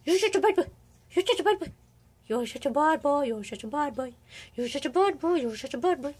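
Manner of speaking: put-on high little voice; playful pet scolding. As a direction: chant it teasingly at a naughty pet. Teasing the cat with repeated scolding.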